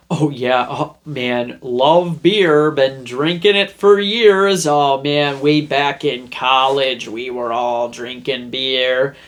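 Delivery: overselling to the cashier, slowing on the end; hammed-up casual beer lover; overcompensating show-off. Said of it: "putting on a show here".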